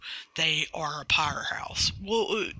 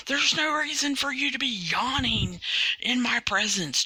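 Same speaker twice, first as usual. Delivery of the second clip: mock scolding leader; 5 semitones higher than usual. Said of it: "Brody Lee says".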